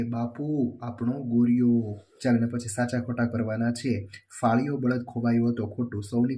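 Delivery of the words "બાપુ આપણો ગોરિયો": drawn-out call, louder at the end; mild acted cry. Teacher voicing Sapna calling to her father, mild mock cry. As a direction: stretch it out like a half-hearted yell. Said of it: "સપનાએ ચીસ પાડીને કહ્યું".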